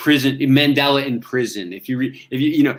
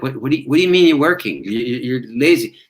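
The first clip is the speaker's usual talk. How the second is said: incredulous mice. Retold or imitated. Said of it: "They're like".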